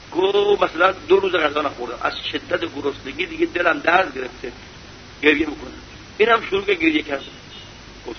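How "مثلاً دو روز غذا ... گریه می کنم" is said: pitiful beggar. Retold or imitated. Hungry man in anecdote speaks.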